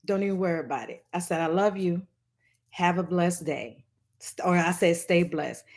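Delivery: mildly soothing retold goodbye; calm retold farewell. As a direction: let them go gently. Retold calm parting words.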